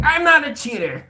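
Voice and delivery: high, loud mock indignant squeal; hammed-up huffy protest in a squeaky put-on voice; offended viewers. Mocking upset viewers who take the cheetah joke personally, high indignant squeal. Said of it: "They're like".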